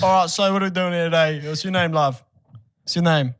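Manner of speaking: mock British show host; British accent. Host greeting contestants on a British show, British accent. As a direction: put on a chatty British presenter's accent. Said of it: "They need to be British".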